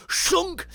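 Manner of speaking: high-pitched chopping noise; comic-book sound effect. Retold or imitated. Imitates machete sound effect.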